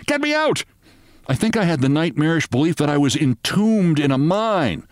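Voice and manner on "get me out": high-pitched panicked bawl; bawled cry. A narrator's reading. Narrator trapped under the bed, high bawled plea. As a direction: bawl it high, pitched far above normal. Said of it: "I bawled".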